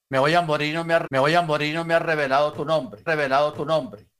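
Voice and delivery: insistent plea. Retold or imitated. Old man praying before he dies, insistent plea. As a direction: press God with a retold plea. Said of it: "Y él insistía, insistía".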